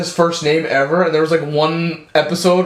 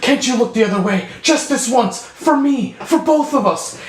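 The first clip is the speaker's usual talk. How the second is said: higher, piecemeal plea; mock tearful pleading; 6 semitones higher than usual. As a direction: beg in short, rising-pitched bursts, lightly acted. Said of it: "she's crying".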